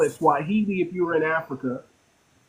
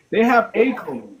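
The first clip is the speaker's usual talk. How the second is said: "a" stressed as a full "ay"; 3 semitones higher than usual. Real, not acted. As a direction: lean on "a" to set up a contrast. Contrasts "a code" with "the code.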